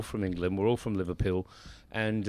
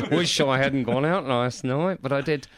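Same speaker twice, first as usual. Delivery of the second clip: regretful inner voice; 4 semitones higher, 5 dB louder than usual. Retold or imitated. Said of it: "we always have a million voices".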